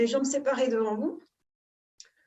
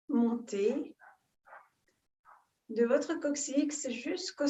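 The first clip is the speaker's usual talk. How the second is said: calm guided breathing, long pauses between phrases; soothing yoga-teacher guidance, phrase by phrase; guided meditation. Real, not acted. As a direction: lead them gently into breath awareness, unhurried.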